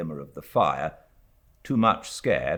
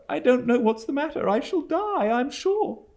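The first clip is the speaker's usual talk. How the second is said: higher, quick and a little trembling; faltering; 4 dB louder than usual. A narrator's reading. Frightened widow to stern aunt, mild faltering. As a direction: fluster out the words, mildly. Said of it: "faltered my mother".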